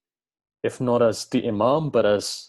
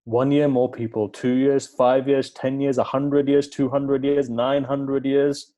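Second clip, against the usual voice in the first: each "years" leaned on, slower and slower to the end; rising count, louder, the last "years" drawn out; building emphasis; 3 semitones higher, 5 dB louder, slower than usual. Acted. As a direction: stretch out "nine hundred years" to make the span feel huge. Counting years up to nine hundred.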